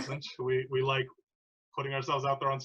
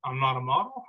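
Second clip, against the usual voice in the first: raised-voice, wounded challenge; defensive outburst; 4 dB louder than usual. Acted. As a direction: throw it back at your girlfriend, hurt and loud. Drunk boyfriend in acted quarrel.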